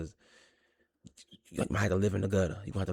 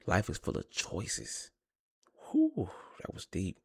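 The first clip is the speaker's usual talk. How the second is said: whispering; slower than usual. Real, not acted. Whispered mock profound remark.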